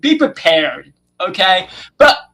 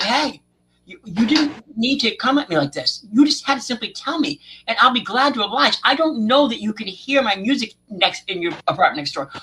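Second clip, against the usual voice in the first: calm; 5 dB quieter than usual. Retold or imitated. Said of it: "So I was very calm".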